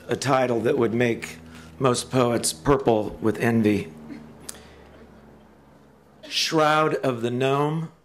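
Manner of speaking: measured, prepared podium delivery; formal introduction speech. Real, not acted. Introducing poet James Tate to an audience, formal speech. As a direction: read out a tribute with careful pauses between phrases.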